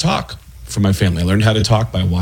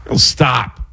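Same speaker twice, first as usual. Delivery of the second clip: halting impression with long odd pauses; stop-and-go put-on celebrity voice; Christopher Walken; 3 semitones higher than usual. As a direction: stop dead mid-sentence, then resume. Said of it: "Christopher Walken is got a great".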